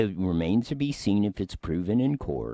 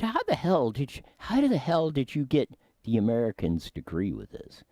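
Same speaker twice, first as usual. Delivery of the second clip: Trump impression; 6 semitones higher than usual. Trump voiced in retelling.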